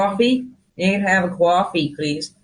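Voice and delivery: American accent. Shown as a demonstration. Showing the host an American accent, hesitant attempt. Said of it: "can you do an American accent".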